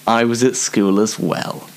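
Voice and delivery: hushed confiding whisper. Real, not acted. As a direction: drop to a whisper for the aside. Whispered aside.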